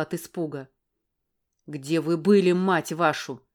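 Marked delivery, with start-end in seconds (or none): 1.7-3.4 loud, fast bark with "были" hit hardest; man barking at her again; angry bark. Acted. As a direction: snap the question out sharply. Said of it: "рявкнул он снова".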